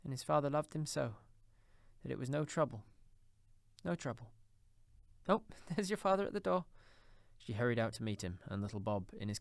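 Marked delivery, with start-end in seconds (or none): 0.0-4.3 higher, gentle mother's voice; mother resuming. A narrator's reading. Mother recalls Tiny Tim. 5.3-6.7 high mother's voice, suddenly brighter; mother's exclamation. A narrator's reading. Mother hears father arrive.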